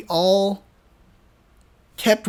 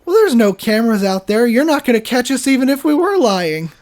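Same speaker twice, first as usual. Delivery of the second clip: cocky retort; 3 semitones higher, 4 dB louder than usual. Retold or imitated. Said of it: "I go".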